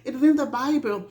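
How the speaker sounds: "It is in the Bible" rattled off fast with the weight on "in"; rapid, insistent restatement; quick insistent repeat. Shown as a demonstration. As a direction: fire it back quickly. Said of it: "Why shouldn't I feel like this?".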